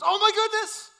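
high, loud gasp of amazement; shocked exclamation. Retold or imitated. Wife suddenly breaking the silence in bed, loud and high. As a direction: blurt it out like a shocking discovery. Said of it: "she goes".

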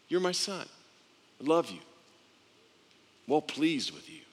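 softly voiced fatherly affirmation; short, soft phrases with long pauses between; tender father. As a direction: speak gently as a father to his son.

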